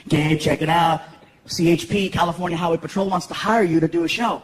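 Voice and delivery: low agent voice. Retold or imitated. Agent calling with a gig, low voice. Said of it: "he's like".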